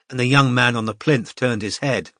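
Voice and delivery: ordinary delivery, nothing marked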